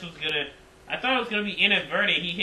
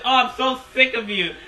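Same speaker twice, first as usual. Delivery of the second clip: raised, louder imitation of exasperation; retold frustration; 7 semitones higher, 5 dB louder than usual. Fan repeating Michael Cole's outburst mid-recap, mock frustrated. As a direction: act out someone fed up, pitched up. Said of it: "Michael Cole gets so frustrated".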